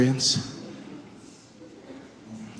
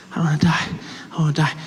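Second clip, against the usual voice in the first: frightened whisper; 4 dB quieter, faster than usual. Retold or imitated. Alone in the car, afraid of the cop, whispering. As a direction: whisper it, terrified of dying.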